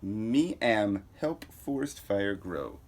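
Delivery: slow, dim-witted backwards hero talk; Bizarro. Acted. Lightly voiced Bizarro boasting about the fire, slow and dim. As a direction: plod through it like a lumbering oaf. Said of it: "Oh, it's Bizarro".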